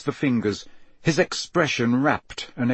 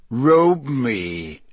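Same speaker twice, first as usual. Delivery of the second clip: cold, commanding villain with drawn-out words; high, cold voice; 4 dB louder than usual. A narrator's reading. Risen dark lord orders his servant to robe him, high and cold. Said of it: "said the high, cold voice".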